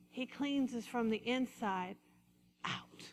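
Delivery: drops softly to a near whisper on out; hushed ending. Real, not acted. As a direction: let it fall to a hush. Sermon point, dropping to a hush.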